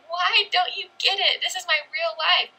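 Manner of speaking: voicing frustration at not being understood; exasperated plea. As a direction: plead as if wanting to shake people. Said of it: "you just wanna shake people".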